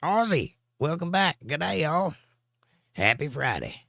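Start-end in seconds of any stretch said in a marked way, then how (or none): 0.0-2.2 bright, high, eager hello to a returning friend; light up and welcome him back warmly; excited greeting. Real, not acted. Host welcoming Aussie back to the stream, excited.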